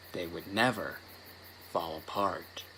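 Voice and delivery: hushed, low and ominous; hushed creeping horror. A narrator's reading. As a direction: let it sink into a dark hush.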